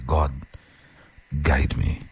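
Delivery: a soft murmured prayer; quiet prayer. Shown as a demonstration. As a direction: pray it quietly, word by word. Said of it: "Constantly say".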